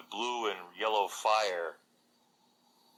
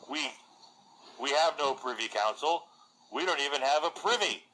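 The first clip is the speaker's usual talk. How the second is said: defiant warrior Agatha; 7 semitones higher than usual. Acted. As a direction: hurl it back at the envoy, much higher. Agatha defies the necromancer's envoy.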